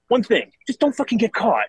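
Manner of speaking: high, sly grandpa advice; lightly voiced old man's wink; grandfather's advice. Grandfather advises the grandson not to get caught, high and sly. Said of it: "he goes".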